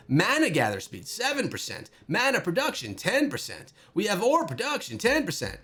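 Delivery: put-on Southern accent with swooping pitch; lightly faked Southern twang on the stat readout; fake Southern accent. Gamer reading out bonuses to viewers, fake Southern accent. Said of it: "It's my fake Southern accent".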